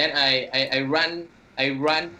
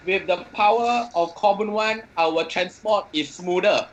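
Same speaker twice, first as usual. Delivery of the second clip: hammed-up slogan, raised pitch; mock shout; 3 semitones higher than usual. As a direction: proclaim it grandly, slowing toward the end. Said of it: "I will shout".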